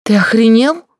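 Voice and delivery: high, loud indignant yelling; angry shriek. Acted. Blonde yells at the gigolo who paid, high angry shriek. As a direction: scream at him, outraged he dares. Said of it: "взвизгнула белобрысая".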